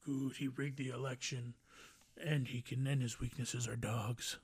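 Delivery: lightly voiced gloating president, low and slowed; a hint of smug Trump, slowly; imitating Donald Trump. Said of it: "I bet you Donald Trump's laughing... He's like".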